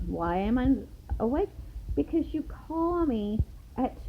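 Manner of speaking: exasperated, pitch jumping up on key words; irritated protest at being woken; indignant, dragging out the complaint toward the end; annoyed retelling. Retold or imitated. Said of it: "I was pissed".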